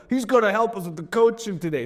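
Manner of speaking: a touch of stage announcer; mock cheerful seminar host. Introducing dad at coaching.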